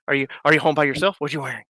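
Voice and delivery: quick then hushed teasing stranger voice; mock-seductive stranger, dropping to a murmur; disguised prank caller. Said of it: "Honey, I know it's you".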